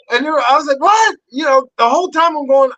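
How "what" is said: high, loud startled yelp of a question; retold disbelief. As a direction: burst out high in mock shock. Incredulous reaction, acted out.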